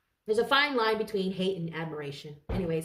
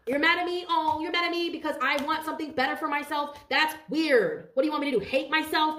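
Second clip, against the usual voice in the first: high, incredulous mock outrage; indignant retort; 6 semitones higher than usual. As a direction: throw it back at the haters, baffled and scornful. Mock indignation at jealous haters.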